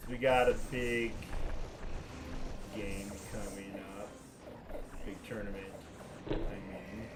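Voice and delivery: thin, tinny mic sound; tinny, metallic voice through a bad mic. Real, not acted. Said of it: "that's really tinny still".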